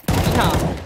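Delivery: loud cowboy yeehaw; Texan yeehaw. Pretend. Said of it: "I hate this so much".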